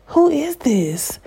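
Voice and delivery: slow, high whisper of curiosity; whispering who this mystery man is; intrigued whisper. Retold or imitated. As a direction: breathe it out like a secret. Wondering about the tarot man.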